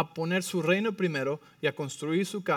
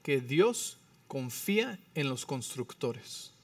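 little voice; 3 semitones lower, 7 dB quieter, much slower than usual. Retold or imitated. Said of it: "nos dice con su vocecita".

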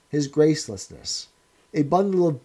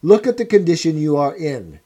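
cold, louder scornful lecture; a hard interrogator sneering at a wreck; stern interrogator; 6 dB louder than usual. Acted. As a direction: press the prisoner's ruin on him. O'Brien berating Winston.

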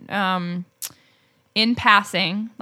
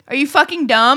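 incredulous whisper; 4 semitones higher, 4 dB louder than usual. Retold or imitated. Exasperated aside about date.

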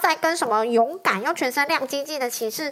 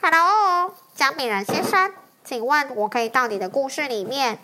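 dragon voice. Acted. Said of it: "龙跟他说".

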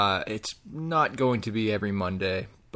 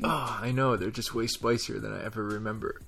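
mouth burning from spicy food; 5 dB quieter than usual. Real, not acted. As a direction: still burning from spicy chips. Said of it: "My mouth is on fire".

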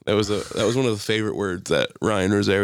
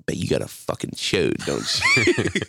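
sneaky taunt; slower than usual. Retold or imitated. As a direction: creep up and needle him slowly. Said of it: "slowly and just be like".

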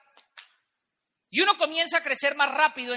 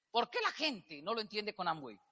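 much softer, lower, almost to himself; quiet repeat; 5 semitones lower, 12 dB quieter than usual. Shown as a demonstration. Speaker asks the audience again, softly. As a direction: drop the voice and ask it again.

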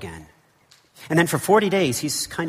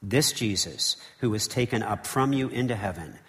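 measured, solemn Bible reading; scripture reading; 2 semitones lower than usual. Acted. Preacher reading Acts to the congregation, solemn and measured.

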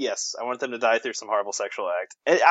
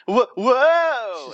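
startled high yelp; surprised; 11 semitones higher, 5 dB louder than usual. Retold or imitated. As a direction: jump at it, shrieking whoa.

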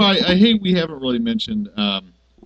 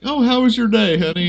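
higher sweet wife voice; wife quote; 7 semitones higher than usual. Retold or imitated. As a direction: play the chirpy housewife, pitched up. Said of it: "his wife's like".

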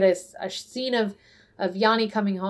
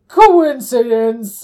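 loud, long drawn-out Manfred quote; mock exclamation; 9 dB louder, much slower than usual. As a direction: stretch the word out loudly. Acted retelling of Manfred's outburst.

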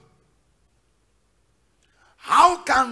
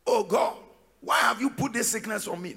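softer, self-pitying mock plea; mock complaining believer; 6 dB quieter than usual. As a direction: imitate a sulking Christian. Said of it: "when you start talking like this".

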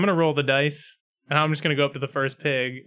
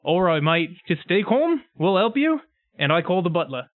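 lightly voiced reassuring pig pal; a hint of a chummy pig character, calming a friend; matey pig. Player pig soothes the panicking pig, lightly voiced matey reassurance.

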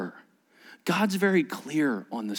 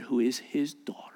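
whisper; 5 semitones lower, 6 dB quieter than usual. Real, not acted. Tender point in sermon.

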